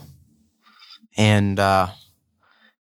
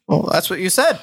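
higher, playful mock innocence; teasing innocent; 8 semitones higher than usual. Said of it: "I'm like".

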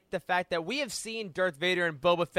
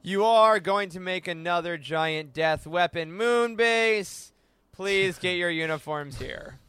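mock training instructor. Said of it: "Hey, everyone".

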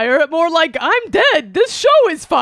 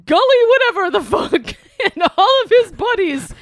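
boisterous birthday clown. Acted. Bunny voice continues, ad read.

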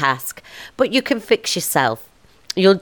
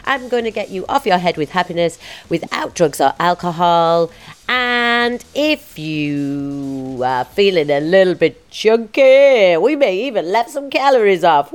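bright put-on American host voice, pitched up; American accent; 6 semitones higher, 4 dB louder, slower than usual. Podcast host opening the show in an American accent. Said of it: "my voice went American then".

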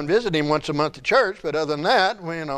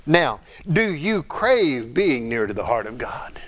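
whispered question; 4 semitones lower than usual. Real, not acted. Preacher whispering a searching question to the congregation. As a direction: whisper it as if sharing a secret.

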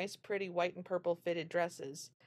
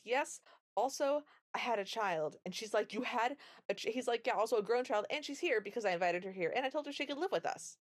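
spitting it out fast; 4 semitones higher than usual. Retold or imitated. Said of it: "he just spits it all out real fast".

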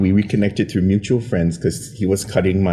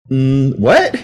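louder, laughing "Mm, what?"; caught-off-guard what; 6 semitones higher, 8 dB louder than usual. Retold or imitated. Teacher cornered by coworkers, flustered laughing what. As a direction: play dumb, flustered. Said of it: "And I'm like".

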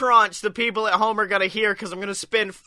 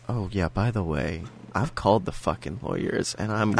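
gruff mock threat; 11 semitones lower, 5 dB quieter than usual. Mocking partner in rough voice.

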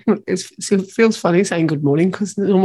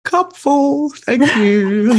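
cheerful contentment; 7 semitones higher, 3 dB louder, much slower than usual. Retold or imitated.

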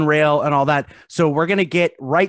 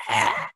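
low groan noise; 6 semitones lower, 4 dB quieter than usual. Acted. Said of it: "when you're done with your noises".

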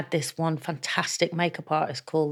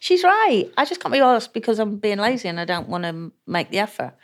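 high self-mocking voice; 4 semitones higher than usual. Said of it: "'Cause I thought".

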